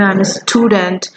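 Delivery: very slow model answer; slow demo. Shown as a demonstration. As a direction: give it slowly for repetition. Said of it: "কিভাবে বলবে?".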